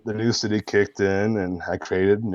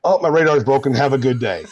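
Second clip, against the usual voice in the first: retold cop reply; 6 semitones higher, 5 dB louder, faster than usual. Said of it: "And he goes".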